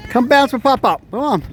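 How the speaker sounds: excited. Real, not acted. Calling grandson to bounce.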